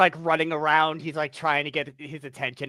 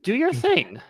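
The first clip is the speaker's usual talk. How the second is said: reassuring. Acted. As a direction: talk him down gently. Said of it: "put my hand on his shoulder and goes".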